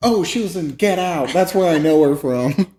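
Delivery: mock realisation. Sudden realisation retold.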